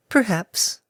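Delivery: airy timid pegasus; gentle mare voice. Acted.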